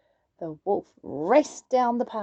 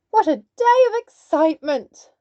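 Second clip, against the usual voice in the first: laughing; 5 semitones higher, 7 dB louder than usual. A narrator's reading. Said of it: "laughed Granny".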